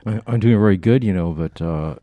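muffled through a face mask; talking through mask. Real, not acted. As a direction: speak from behind a covering mask. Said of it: "talking through this mask".

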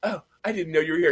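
lightly acted, airy surprise; Blanche. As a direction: play a sitcom lady caught in her negligee. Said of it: "and she goes".

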